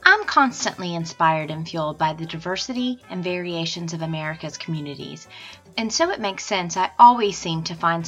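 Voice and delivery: upbeat sponsor read. Acted. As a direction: read it like a podcast ad. Sponsor read over music.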